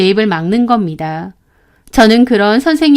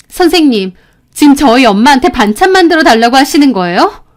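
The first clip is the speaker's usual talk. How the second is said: raised, fast indignant challenge; heated protest; 3 semitones higher, 4 dB louder, faster than usual. Retold or imitated. Student confronting teacher over mother's side dishes, heated. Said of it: "목소리가 엄청 격앙되고 흥분했죠".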